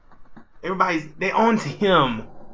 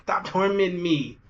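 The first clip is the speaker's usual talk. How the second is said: mock crying plea; slower than usual. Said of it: "Crying out".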